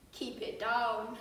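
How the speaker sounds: calm, unbothered cop telling you to pipe down; policeman. Acted. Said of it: "a policeman comes up to the door and goes".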